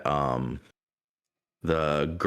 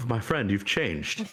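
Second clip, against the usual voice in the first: Ramses; 4 semitones higher, slower than usual. Acted. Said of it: "looks over at Tablu and goes".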